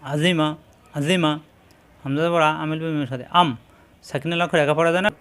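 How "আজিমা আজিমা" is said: আজিমা clipped short and quick; now say আজিমা fast; brisk corrected take; quick reading. Shown as a demonstration. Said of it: "তাড়াতাড়ি".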